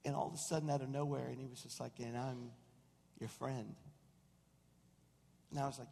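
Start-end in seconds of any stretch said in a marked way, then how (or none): 2.0-3.8 soft, intimate reply; gentle reassurance. Retold or imitated. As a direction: answer a prayer quietly and tenderly. God's gentle reply, retold.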